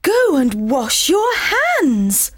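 shouting. Acted. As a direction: call out the order sharply. Mum orders son.

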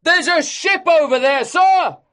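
high, loud and thrilled; excited shout. A narrator's reading. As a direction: call out with hope. Excited sailors.

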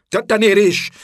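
high, loud accusing cry; shouted accusation. A narrator's reading. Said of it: "kiabálta sápadtan". (magas hangú, vádló kiáltás)

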